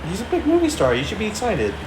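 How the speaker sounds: put-on Danish accent. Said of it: "your Boston accent".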